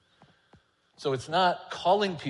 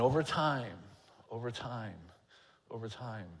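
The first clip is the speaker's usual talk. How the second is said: fading repetition; 6 dB quieter than usual. Real, not acted.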